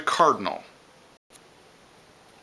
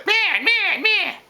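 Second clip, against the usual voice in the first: much higher, louder harsh bird scold; scolding blue jay call; 4 dB louder, much slower than usual. Retold or imitated. Teacher imitating a blue jay scolding, much higher harsh call. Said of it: "It's very scolding, like this".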